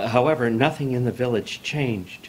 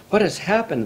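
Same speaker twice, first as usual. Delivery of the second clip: crying out; 12 semitones higher, 4 dB louder than usual. A narrator's reading. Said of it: "the villagers cried".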